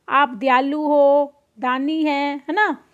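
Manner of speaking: धीमी, मीठी चापलूसी भरी आवाज़; दुकानदार को फुसलाते हुए हल्की मिठास; मीठा-मीठा बोलना. Acted. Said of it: "मीठी-मीठी बातों में मीठा-मीठा बोलता है". (खरगोश दुकानदार की तारीफ़ करता है, मीठे स्वर में)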